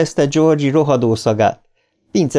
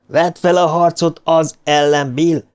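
urgent shout; 6 semitones higher than usual. A narrator's reading. Richie urges Bill to fight, high urgent cry. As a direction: call out to rally a friend. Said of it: "kiáltotta Richie".

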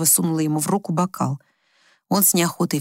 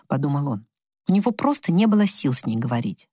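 ordinary delivery, nothing marked

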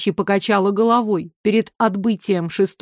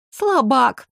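disappointed whisper; 4 semitones higher than usual. A narrator's reading. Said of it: "разочарованно прошептала Оля".

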